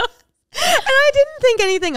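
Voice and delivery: high, loud words through laughter; laughing. Real, not acted. Friend telling her awkward late-night story, laughing hard. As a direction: keep talking while cracking up.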